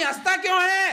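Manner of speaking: wife's irritated question. Retold or imitated. Wife repeats louder.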